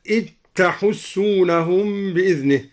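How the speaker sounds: إذ تحسونهم run together as "it-tahussunahum"; dhal merged into ta. Shown as a demonstration. Teacher demonstrates idgham in إذ تحسونهم, "it-tahussunahum". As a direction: turn the dhal of إذ into a doubled t on تحسونهم. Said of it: "وأدغم الذال في التاء".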